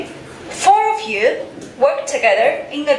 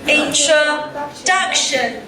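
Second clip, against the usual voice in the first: slow model word; slower than usual. Shown as a demonstration. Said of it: "Anyone knows the noun".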